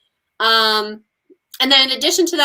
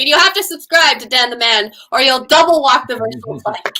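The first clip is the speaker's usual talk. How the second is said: pirate captain; 2 semitones higher, 4 dB louder than usual. Pretend.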